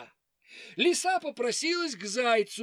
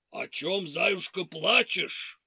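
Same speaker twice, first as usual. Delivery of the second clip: wolf voice; 2 semitones lower than usual. Acted. Wolf asks hare.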